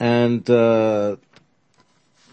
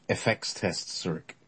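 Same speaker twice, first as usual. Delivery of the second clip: quiet; 8 dB quieter than usual. Acted. Eckert answers quietly.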